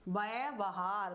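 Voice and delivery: व्यवहार spoken slowly with first व sounded as ब; व्यवहार said very slowly as bəebahaɾ; drawn-out demo word. Shown as a demonstration. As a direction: stretch व्यवहार out syllable by syllable, व as ब. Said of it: "सुनने में ही बहुत बड़ा डिफरेंट".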